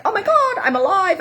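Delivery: high, laughing burst of aliveness; mock elation. Telling viewers how anger feels, high laughing mock thrill. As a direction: squeal it like a sudden thrill. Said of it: "it's like".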